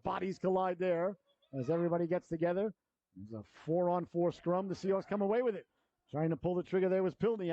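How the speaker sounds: brisk live play-by-play; hockey announcer. Real, not acted. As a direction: call the game as it happens.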